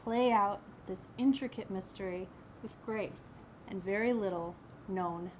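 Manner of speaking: emphatic opening phrases, easing at line ends; poem recital. Acted. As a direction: recite from memory in measured poetic phrases.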